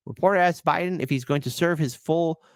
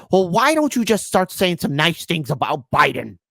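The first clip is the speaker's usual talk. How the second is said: mock liberal quote; 3 semitones higher, 5 dB louder than usual. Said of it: "one person said".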